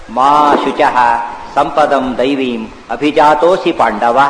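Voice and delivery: slow, drawn-out Sanskrit verse; verse recitation. Retold or imitated. Preacher quoting Krishna's answer to Arjuna, slow verse recitation. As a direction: recite it measuredly with long vowels.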